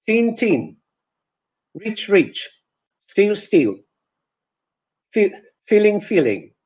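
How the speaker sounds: put-on "teen" with a long and a short vowel; minimal pairs. Shown as a demonstration. Teacher showing pairs that Polish vowels merge. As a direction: contrast "feeling" and "filling". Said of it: "if we don't pronounce this e sound as e".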